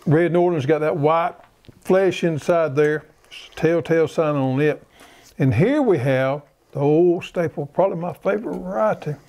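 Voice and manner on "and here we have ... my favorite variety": talking while chewing; words through a mouthful of potato; mouth full. Real, not acted. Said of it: "I'm trying to talk my mouth full".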